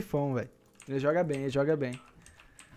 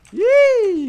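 surprised; 11 dB louder than usual. Real, not acted. Surprise at match result.

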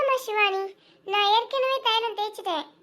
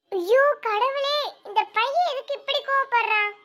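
distressed cry; 6 semitones higher than usual. Acted. Mother distressed watching the fight.

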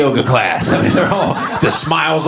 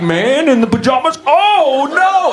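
much higher, rising alarm; mock panic; 12 semitones higher, slower than usual. Comic realizing he's the man in pajamas, mock panic. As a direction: panic as it dawns on you.

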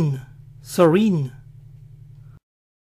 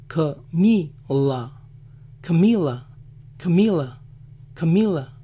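American accent; much slower than usual. Shown as a demonstration. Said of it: "cómo dicen Camila".

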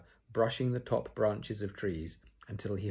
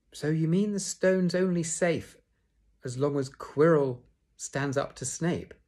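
higher, louder alarmed question; worried Hermione realising danger; 7 semitones higher, 5 dB louder than usual. A narrator's reading. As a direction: Hermione alarmed, asking Harry. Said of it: "said Hermione in alarm".

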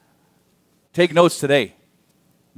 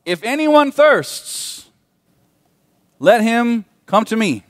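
crying out; 8 semitones higher, slower than usual. Shown as a demonstration. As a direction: cry it out to the whole crowd. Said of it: "That sounds like this".

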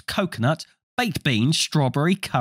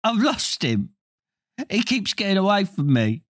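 put-on high tearful wail of a lost boy; a boy wailing higher over his lost toad; 8 semitones higher than usual. A narrator's reading. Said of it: "he wailed".

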